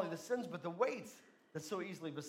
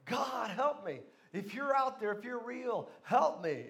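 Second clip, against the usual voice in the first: raised, pleading call to God; desperate prayer; 2 semitones higher, slower than usual. Retold or imitated. Stranded climber begs God for rescue, praying aloud. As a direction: mock-desperate plea sent skyward. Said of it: "he began to pray".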